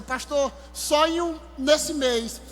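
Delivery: crying. Retold or imitated. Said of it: "ela começou a chorar".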